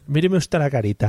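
lightly imitating Luis Aragonés. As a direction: repeat the coach's line in a light put-on voice. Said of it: "le hizo Luis Aragonés". (imitando a Luis Aragonés)

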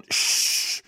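long hissed shush, acted out; imitated shush. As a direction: hush an embarrassing companion. Woman hushes the man again.

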